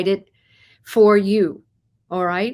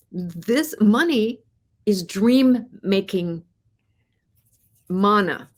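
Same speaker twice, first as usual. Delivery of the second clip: slow, hushed whisper, drawn out; slower than usual. Real, not acted. Host telling viewers money is dream-making, in a slow whisper. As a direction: lean in and whisper it like a secret.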